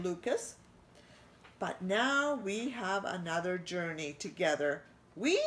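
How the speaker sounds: lightly voiced warm French chef; a hint of a French accent, welcoming. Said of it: "he said".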